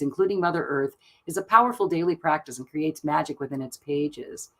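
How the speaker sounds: calm, even reading of the oracle card; soothing oracle-deck narration. Acted. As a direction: read it out like a gentle ritual guide. Reads card text aloud.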